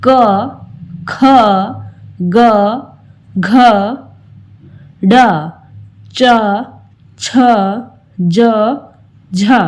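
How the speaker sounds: slow, clear demo of each letter; syllable drill. Shown as a demonstration. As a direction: say each letter with its short a sound. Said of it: "जैसे". (हर अक्षर साफ़ अलग-अलग बोलना)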